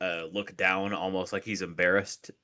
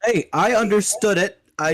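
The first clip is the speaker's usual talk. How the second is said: loud indignant protest; 11 semitones higher, 11 dB louder than usual. Real, not acted. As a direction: call it out loudly in protest. Protesting the dial-up joke.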